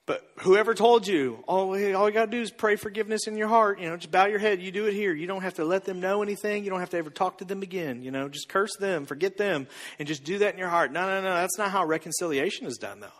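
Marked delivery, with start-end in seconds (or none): 1.5-10.9 softer, offhand rattle tailing away; mock glib advice. Someone advising forgiveness from afar, mock-dismissive. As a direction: imitate someone breezily brushing it off.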